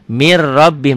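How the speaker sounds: "mir rabbihim" with a double r and no hum; just double the r between "mir" and "rabbihim"; doubled r only. Shown as a demonstration. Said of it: "double aja". ("mir rabbihim", r ganda saja tanpa dengung)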